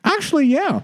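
high playful actually yeah; high wry agreement; jokey. Real, not acted. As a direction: tease it brightly. Joking agreement.

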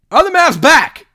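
high, loud excited yell; hype shout. Real, not acted. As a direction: belt it like a stadium announcer. Hype question shouted again.

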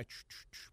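short repeated "ch" puffs; imitated pump noise. Storyteller shows friends how pumping goes, imitated pump hiss. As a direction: mimic a hand pump with the mouth.

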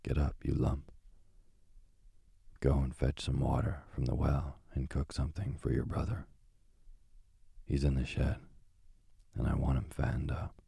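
a hint of a harsh witch barking orders; lightly voiced witch. Witch rousing Gretel with orders, a lightly voiced sneer. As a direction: sneer at the lazy girl, only lightly.

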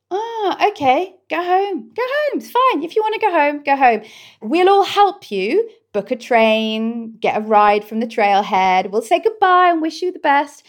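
calm a friend who wants to quit; soothing friends. Retold or imitated. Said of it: "people say".

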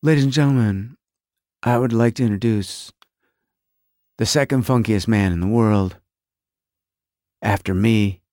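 low, measured stage introduction; badly faked star voice on the microphone, deep and deliberate; a singer. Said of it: "the singer goes in that singer's voice".

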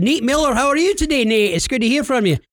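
high-pitched put-on phone greeting; playfully effusive hello; mock-friendly greeting. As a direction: greet the scammer like an old pal. Prankster greets the scammer.

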